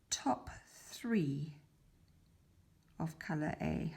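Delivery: hushed count while working; counting whisper. Real, not acted.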